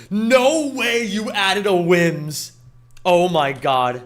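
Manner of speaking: amazed disbelief. Real, not acted. Thrilled by a new emote.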